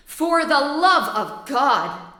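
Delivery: slow, drawn-out taunting repeat; mock his plea slowly; mocking echo. Montresor mockingly echoes.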